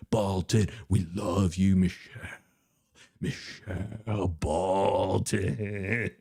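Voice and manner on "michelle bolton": slow, hammed-up sob on the name; mock crying. Streamer fake-crying to chatter Michelle, very slow. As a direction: pretend to weep her name slowly.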